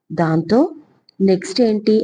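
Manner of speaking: understated innocent curiosity; innocent question. Acted. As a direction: ask it wide-eyed and innocent. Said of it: "అమాయకంగా అడిగింది సిరి".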